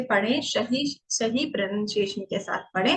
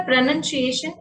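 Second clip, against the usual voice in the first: given more time; 2 semitones higher than usual. Shown as a demonstration. Teacher contrasting a long word with a short one, slightly stretched. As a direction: take a little time over प्रोनंसिएशन. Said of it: "बोलने में थोड़ा सा समय दिया".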